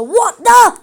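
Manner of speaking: high, loud yelp of shock; startled yell. A narrator's reading. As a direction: cry out as if stabbed. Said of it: "yelled Mister Binzer".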